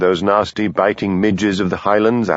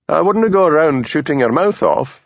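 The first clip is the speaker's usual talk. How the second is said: cautioning; 7 semitones higher than usual. A narrator's reading. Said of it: "cautioned Hamish".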